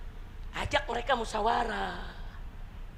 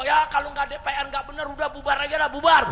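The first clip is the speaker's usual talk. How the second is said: imitated public demand, pitched higher; protesting; 5 semitones higher, 4 dB louder, faster than usual. People demanding parliament be dissolved, protesting. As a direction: build to a loud last word. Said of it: "rakyat protes".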